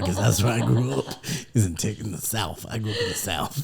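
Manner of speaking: hammed-up southern drawl. Shown as a demonstration. Host explaining southern roots, in a playful southern drawl. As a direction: lay on a southern twang. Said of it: "more of a southern drawl".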